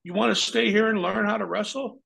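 a high mock voice for the boss; imitating the boss. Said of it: "He says".

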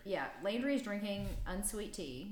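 teasing with judgment; a judgy jab about unsweet tea; judgmental tone. Real, not acted. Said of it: "there's judgment in that tone".

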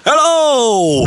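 a prank shout into a stethoscope; shouted hello. Retold or imitated. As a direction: yell it down the stethoscope. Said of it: "I shouted down the microphone".

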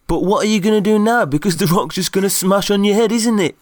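high, fast, loud panicked voice. Acted. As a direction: panic as the rocks come down. Toderick panics in collapsing cave.

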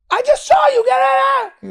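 retold furious shout. Girlfriend screaming at her cheating boyfriend. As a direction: yell it at him. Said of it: "And she was like".

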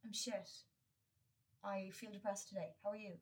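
frank and matter-of-fact, no cheer put on; blunt honest reply. To a neighbour on a walk, a plain frank answer. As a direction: say it straight, no mask. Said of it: "I want to be like".

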